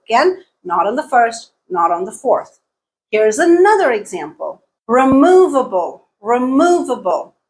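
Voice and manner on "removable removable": "Removable" as re-MOV-a-ble, MOV long; stress on second syllable. Shown as a demonstration. Teacher giving an example, second-syllable stress. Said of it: "stress is on the second syllable".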